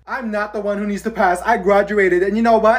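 stern teacher. Acted. Teacher scolding class loudly.

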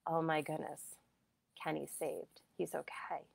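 soft, fading to a whisper; awed hush. Retold or imitated. Medium in the room after a rescue, whispering in awe. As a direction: breathe it out in relief.

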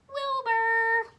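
high, loud, drawn-out name; stretched-out, ringing reveal; big name reveal. Real, not acted. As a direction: announce the name with a flourish.

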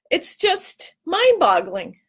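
slow, crying "mind-boggling"; tearful. Real, not acted. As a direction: drag out "mind-boggling" through tears. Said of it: "we should all be crying about this".

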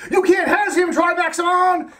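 high, laughing mock Slayer voice; a goofy high heroine voice. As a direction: giggle through the Slayer's challenge. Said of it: "She's like".

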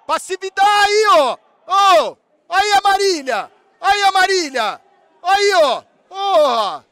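high, very loud outburst; real full-force fan yelling; furious screaming. Real, not acted. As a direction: scream at the team's passivity. Furious at team's passivity.

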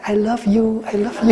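amused wife parroting her husband; mocking husband's I love you. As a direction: tease his constant I love you with a giggle. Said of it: "Thầy nói với ổng á".

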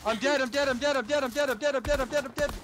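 frantic repeated cries, high and loud; panicking while burning; panicked. Real, not acted. Dying in fire, panicked repeating.

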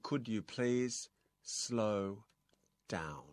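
spaced out, pausing before "slow" and "down"; slow model phrase. Shown as a demonstration. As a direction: model it for learners to repeat, chunk by chunk. Teacher models phrase for repetition. (พูดนำช้าๆ เว้นจังหวะทีละคำ)

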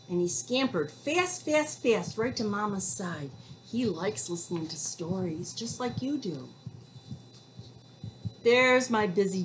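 gentle storybook narration for little ones; reading to children. Acted. Reads picture book to kids.

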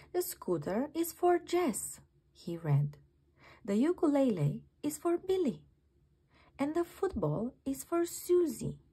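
a small creature panicking kindly; Norman the slug, worried. Acted. Narrator voices Norman the slug.

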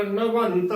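ਨਵੰਤ slowly with full nasal, "navant"; slow "na-vant" for ਨਵੰਤ; correct pronunciation. Shown as a demonstration. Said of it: "ਬੋਲਣਾ".

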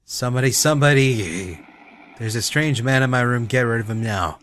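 frightened, shrill screams for help, high and loud; panicked screaming. Acted. Confused mother screams at her son as a stranger, terrified. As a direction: yell for help in terror at an intruder.

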